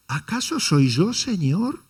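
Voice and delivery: "¿Acaso" stressed, rising on "Señor" as if expecting no; a question that wants a no; doubting intonation. Shown as a demonstration. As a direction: ask "¿Acaso soy yo, Señor?" as though it can't be. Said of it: "Cambió, ¿no?".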